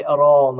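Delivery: "Arán" said with the weight landing on -rán, not the first syllable; stress on second syllable. Shown as a demonstration. Guest showing Kerry Irish stress on "Arán", second syllable stressed. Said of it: "we put the stress on the fir-, on the second syllable".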